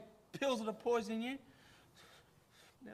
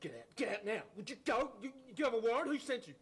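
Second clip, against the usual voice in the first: panicked demands; 4 semitones higher than usual. Acted. Paranoid man accuses friend of being cop.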